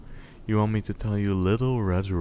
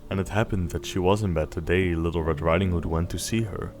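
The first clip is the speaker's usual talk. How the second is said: gentle storybook reading voice; bedtime story narration. A narrator's reading. Parent reading Little Red Riding Hood to Snowball, storybook voice. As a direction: read it like a bedtime tale. Reads fairy tale to child.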